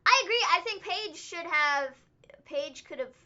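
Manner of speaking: ordinary talk, nothing marked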